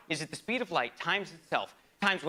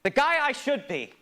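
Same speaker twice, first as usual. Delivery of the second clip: put-on higher, louder snapping at the kid; angry outburst; 8 semitones higher, 6 dB louder than usual. Older self snapping at his child self, angry shout. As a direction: tell off the little pissant, voice climbing. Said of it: "So you go".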